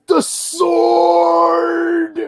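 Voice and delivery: a delighted stranger yelling the band name high and loud; shouted greeting. Retold or imitated. Stranger in line spots the band shirt, yells excitedly. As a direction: shout it out like a thrilled fan. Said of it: "He's like".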